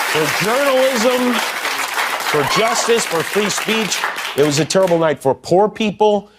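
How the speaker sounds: choked up. Real, not acted. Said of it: "gets most choked up for Ukraine".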